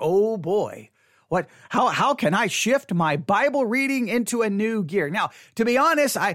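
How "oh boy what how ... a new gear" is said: ordinary talk, nothing marked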